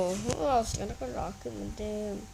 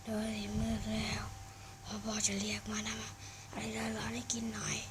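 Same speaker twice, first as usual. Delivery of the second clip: whisper; 6 dB quieter than usual. Acted. Dad voiced in a game story.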